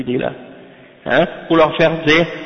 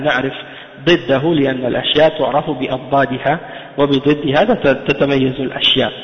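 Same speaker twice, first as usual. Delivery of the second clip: fast text reading; faster than usual. Acted. Reads the Arabic treatise text.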